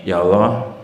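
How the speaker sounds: low, fast and dismissive; rude careless prayer. Retold or imitated. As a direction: toss it off at God with no manners. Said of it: "Jangan begini".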